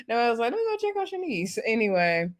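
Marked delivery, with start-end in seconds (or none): 0.5-1.6 mock Noelle. Noelle quoted, high voice.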